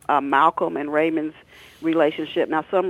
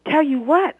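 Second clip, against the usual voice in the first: frightened question; 11 semitones higher, 6 dB louder than usual. Acted. Son frightened, confused.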